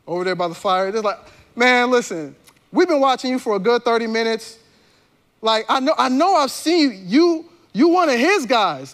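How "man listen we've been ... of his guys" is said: pressing, emphatic challenge; insistent accusation. Acted. Townspeople to Peter by the fire, insistent accusation. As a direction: build the accusation as you go.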